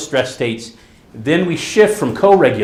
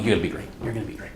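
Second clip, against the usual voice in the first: reassuring; 3 semitones lower, 10 dB quieter, much faster than usual. Retold or imitated. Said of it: "they're just assuring me".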